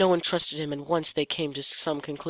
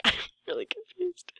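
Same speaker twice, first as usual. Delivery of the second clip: laughing confusion; 13 semitones higher, 8 dB quieter than usual. Real, not acted.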